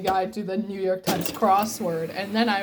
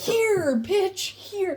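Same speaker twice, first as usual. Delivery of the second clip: exasperated; 10 semitones higher, much slower than usual. Real, not acted. Handing it over, exasperated.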